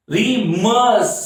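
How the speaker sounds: "रिमर्स" slow, weight on the second syllable; "रिमर्स" drawn out on its stressed ending. Shown as a demonstration. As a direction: lean long on "मर्स" in "रिमर्स". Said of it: "रिमर्स stress level है".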